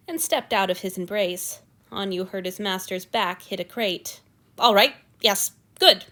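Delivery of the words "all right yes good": tight with panic. A narrator's reading. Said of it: "tone was tight with panic".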